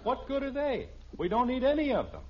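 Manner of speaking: high-pitched exasperation; husband fed up with the magazine stack; exasperated. Acted. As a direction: throw up your hands.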